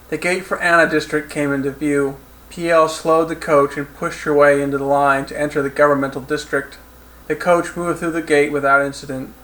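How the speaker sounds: measured audiobook narrator; steady third-person storytelling; story narration. A narrator's reading. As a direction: read the action scene evenly, like an audiobook.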